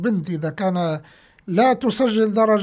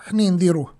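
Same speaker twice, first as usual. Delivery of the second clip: conspiratorial whisper; 2 semitones lower, faster than usual. Retold or imitated. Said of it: "قالوا له".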